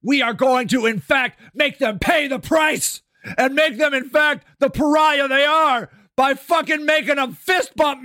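hammed-up angry candidate yelling threats; mock Biden rant. Mock Biden quote, ranting parody.

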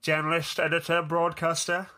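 talking with a pen in teeth. Real, not acted. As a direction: speak around a pen in the mouth. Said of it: "you put a pen in your mouth and continued to talk".

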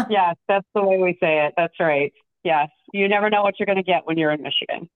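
hoarse from a cold; husky under-the-weather voice; raspy voice. Real, not acted. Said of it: "I'm loving the raspy voice".

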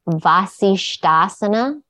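Vasishtasana said slowly, s before sh; careful Sanskrit pronunciation. Shown as a demonstration. Teacher showing the right Sanskrit name slowly. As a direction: spell out Vasishtasana, s then sh. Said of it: "'Cause I said it".

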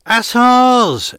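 high, loud furious yell. Acted. Tall woman cursing the attackers, yelling loud and high. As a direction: scream the insult as she flees. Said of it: "The tall woman yelled".

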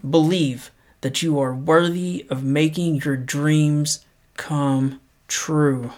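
measured, unhurried reading of a quote; paced motivational read; slow inspirational quote reading. Acted. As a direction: read it slow and earnest, letting each line land. Reads quote slowly.

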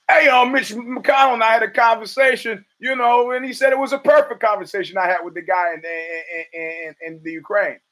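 hammed-up Trump telling a story; imitating Trump. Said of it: "when Trump says".

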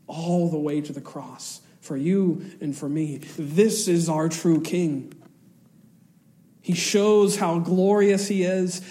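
normal talking voice

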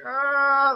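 high drawn-out mock groan; exasperated "ah". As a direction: imitate a flustered official's high "ahh". Imitates officials' exasperated reaction.

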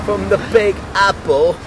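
put-on high, hammy British accent. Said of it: "Just say that in your British accent".

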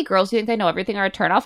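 quick, rising disbelief, mock stunned Kate; incredulous question. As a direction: fire it off fast as a stunned question. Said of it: "When Kate's like".

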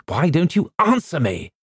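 high, indignant question; acted angry impatience; rough demand. A narrator's reading. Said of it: "I said roughly".

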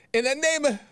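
mock yell. Shown as a demonstration. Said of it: "I wasn't yelling it, like".

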